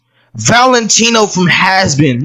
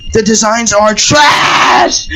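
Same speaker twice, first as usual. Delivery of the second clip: angry; slower than usual. Real, not acted. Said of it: "I can't hold it in anymore".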